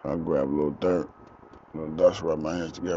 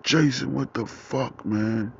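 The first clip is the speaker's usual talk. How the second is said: hurt dad; 7 semitones higher, slower than usual. Retold or imitated. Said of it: "He was like".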